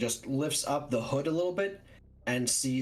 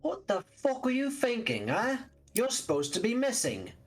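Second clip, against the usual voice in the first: higher, sharp angry telling-off; angry scolding; 7 semitones higher than usual. Acted. Darius turns in the car to scold Ambrose, angry and high. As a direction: tear into him, pitched up high.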